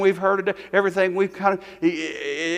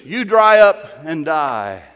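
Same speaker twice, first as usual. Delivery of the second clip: stern, slow rebuke; 4 dB louder, much slower than usual. Acted. Rebuking cancer in Jesus' name.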